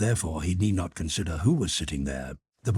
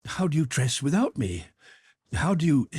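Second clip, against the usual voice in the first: forced cheerfulness; 9 semitones higher than usual. A narrator's reading. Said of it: "she tried to speak simply and cheerfully".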